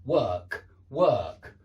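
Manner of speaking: "work" with a long er-sound; er vowel work. Shown as a demonstration. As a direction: stretch the er in "work". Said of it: "you've got work".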